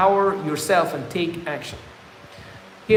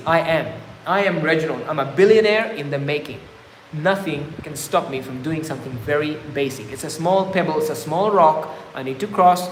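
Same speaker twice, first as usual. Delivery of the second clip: self-affirmation. Shown as a demonstration. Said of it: "I can talk like this".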